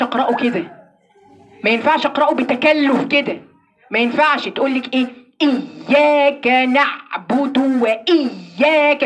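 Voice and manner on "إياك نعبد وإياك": إياك نعبد with the ياء pressed hard and slow; heavy stress on ya. Shown as a demonstration. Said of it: "شوف بتتك على الياء إزاي". (ضغط مبالغ على الياء في إياك)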